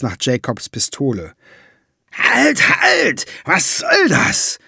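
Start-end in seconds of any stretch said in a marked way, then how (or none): 2.1-4.6 high, loud startled cry of a dwarf; panicked dwarf shouting stop; alarmed shout. A narrator's reading. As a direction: yell halt in a panic. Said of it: "schrie Valiant".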